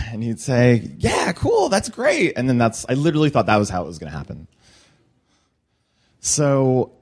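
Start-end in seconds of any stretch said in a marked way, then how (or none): 1.0-2.3 imitating Culkin. Imagined Culkin reply.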